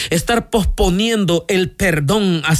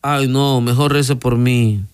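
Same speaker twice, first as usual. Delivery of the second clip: lazy reluctance; 3 semitones lower, slower than usual. Acted. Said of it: "¿Será la pereza?".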